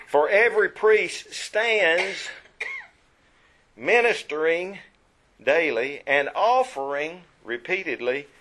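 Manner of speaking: slow, loud reading punching each verb; stressed verbs. Shown as a demonstration. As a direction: hit stands, offering, sat down hard. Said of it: "I hope you caught the emphasis on those verbs".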